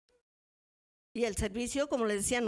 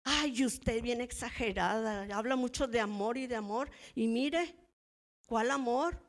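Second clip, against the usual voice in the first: proud retort. Retold or imitated. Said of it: "Bien orgullosa".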